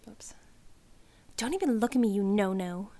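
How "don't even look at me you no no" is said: louder sneer. Acted. Cindy snubs the narrator across the desks, a loud sneer. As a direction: spit it out at her, not hushed. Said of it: "low under her breath".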